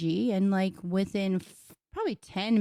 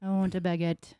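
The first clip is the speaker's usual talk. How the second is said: weak attempt at a French accent; half-hearted French accent; 3 semitones lower than usual. Shown as a demonstration. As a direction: try French on I want a baguette. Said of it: "talk the French way".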